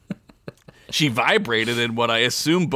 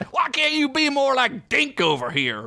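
scolding; 11 semitones higher than usual. Acted. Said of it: "scolding Snifty".

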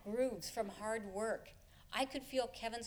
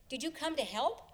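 excited call; 4 semitones higher than usual. Retold or imitated. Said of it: "called out excitedly".

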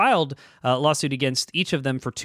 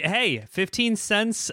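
mock outrage; 9 semitones higher, slower than usual. Real, not acted. Mocking the tiny payment.

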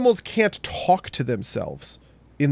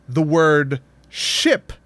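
slow, drawn-out Spanish-accented word; much slower than usual. Shown as a demonstration. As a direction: say it like Mateo with Spanish vowels. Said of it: "if I'm Mateo".

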